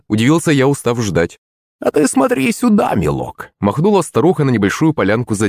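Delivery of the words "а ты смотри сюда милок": crone calling. A narrator's reading. Старуха зовёт смотреть.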